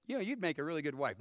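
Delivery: quick, soft mock-romantic aside; fast throwaway joke line; joking fake quote. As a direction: tease the congregation. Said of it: "No, that's not what he said".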